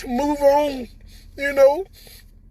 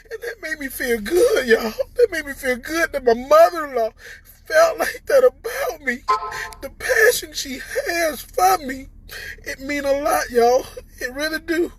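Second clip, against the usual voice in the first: choked up, voice catching on the words; fighting back real tears; real tearful. Real, not acted. Thanking people online, choked up and tearful. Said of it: "I didn't mean to get on here and cry".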